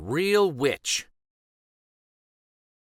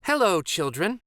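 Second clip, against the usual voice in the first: sweet voice; 7 semitones higher than usual. A narrator's reading. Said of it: "someone said in a sweet voice".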